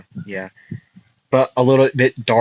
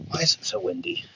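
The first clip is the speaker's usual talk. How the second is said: high, baffled squeak at the wind; exasperated surprise; 10 dB quieter, faster than usual. Real, not acted. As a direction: cry out in disbelief, pitched way up. Complaining about the wind noise.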